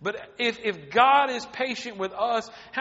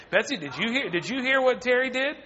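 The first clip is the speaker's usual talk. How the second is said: mock gossip; 4 semitones higher than usual. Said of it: "go to everybody else and say".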